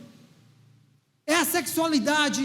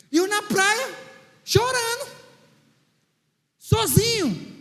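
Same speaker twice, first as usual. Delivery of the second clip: mock crying; 6 semitones higher, slower than usual. Recalls crying alone on beach.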